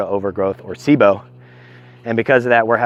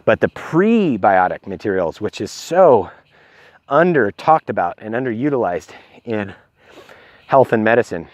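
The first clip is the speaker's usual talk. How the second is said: talking while out of breath; short of breath from walking. Real, not acted. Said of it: "Excuse me while I catch my breath".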